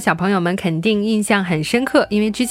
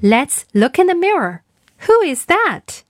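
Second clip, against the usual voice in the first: a lightly voiced mother, higher on who; playing mommy; 5 semitones higher than usual. Teacher playing the mother asking her child. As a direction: gently ask like a mother at the mirror. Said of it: "我来当妈妈".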